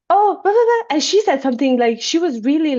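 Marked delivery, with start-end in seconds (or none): 0.1-1.0 mock dismissive. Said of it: "it was like, well".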